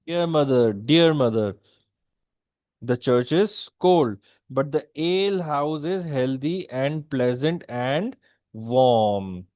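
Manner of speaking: slow reading with pauses between phrases; slow verse reading. Shown as a demonstration. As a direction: draw out COLD and WARM, pausing before each phrase. Reads the verse aloud slowly.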